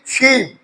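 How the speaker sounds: शीप begun with a clear "sh" and a long ee; sh sound. Shown as a demonstration. Teacher showing students the SH spelling, शीप pronounced with "sh". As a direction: say शीप with SH as in the letter sheen. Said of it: "एस एच शीन की आवाज देता है".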